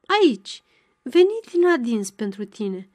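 lightly voiced old woman, pitch jumping up on the first word; a touch of a leering hag's chatter; old beggar woman greeting Ana, mildly grinning; grinning old crone. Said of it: "flecăi Oloaga rânjind".

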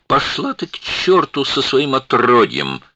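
loud, high angry bark; barked curse. A narrator's reading. Duncan swearing at Emmy, angry bark. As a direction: snap it at her with contempt. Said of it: "рявкнул Дункан на Эмми".

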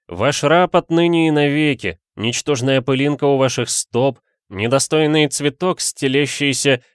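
high, loud theatrical devotion; grovelling adorer. A narrator's reading. Suitor declares himself madame's slave, overblown adoration. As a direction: gush ornately, drawing out the end.

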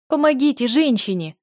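loud, high cry for help; shout. A narrator's reading. Girl shouting at the healers to help the woman. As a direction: yell it across the room. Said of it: "закричала я".

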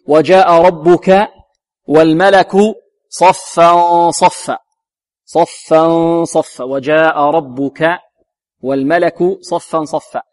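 slow verse reading with drawn-out vowels; measured recitation. Shown as a demonstration. Teacher reciting the verse for students, measured recitation. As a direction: model the verse slowly and evenly.

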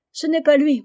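a daughter in tears protesting; sobbing outcry. A narrator's reading. Aliette cries out to her father through sobs. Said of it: "s'écria Aliette au milieu des sanglots".

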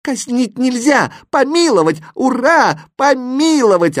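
high, loud jubilant cheering; overjoyed. A narrator's reading. Exclamation Mark hears of a pardon, overjoyed. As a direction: cheer the pardon at the top of your voice. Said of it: "обрадовался восклицательный".

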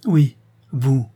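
harsh, emphatic accusation. A narrator's reading. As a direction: throw the blame straight at him. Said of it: "reprit-elle âprement".

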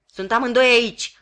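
loud panting call; breathless shout. A narrator's reading. Sergeant reaching the ditch, loud breathless shout. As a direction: call out while out of breath from running. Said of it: "spuse sergentul gâfâind".

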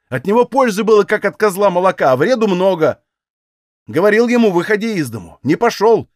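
ordinary delivery, nothing marked

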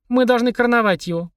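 high, sustained proclaiming voice; grand proclamation. A narrator's reading. Polina proclaims a coronation to her brother, grandly. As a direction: proclaim it like a royal decree. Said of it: "провозгласила Полина".

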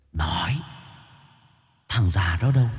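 a menacing demand, held back and soft; pressing through the teeth. Acted. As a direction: lean in and force the answer out. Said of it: "nghiêng người gằn giọng".

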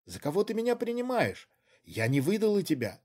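high, offended protest; indignant. A narrator's reading. Woman protesting she did not betray him. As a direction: defend yourself, stung.

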